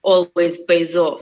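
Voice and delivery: hard work in a put-on Russian accent; strong Russian accent. Shown as a demonstration. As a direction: lay on a thick Russian accent. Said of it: "go for a strong Russian accent".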